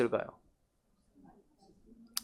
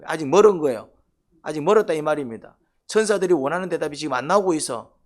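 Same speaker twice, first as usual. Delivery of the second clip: emphatic preaching; 5 dB louder than usual. Real, not acted.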